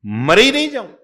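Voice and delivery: hammed-up refusal of the old mother; mock old woman. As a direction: wail "ही" like a stubborn old mother. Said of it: "वो तो क्या".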